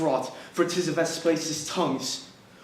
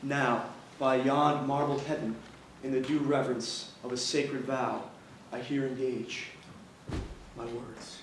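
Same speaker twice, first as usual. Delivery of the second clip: grim vow. Acted. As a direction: swear it darkly. Othello swears a vow.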